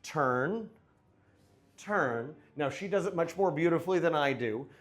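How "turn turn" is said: counting the turn. Shown as a demonstration. Instructor showing the partner's smooth turn count. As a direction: turn turn lifted evenly, in time. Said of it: "Notice that when she was prepped, it was".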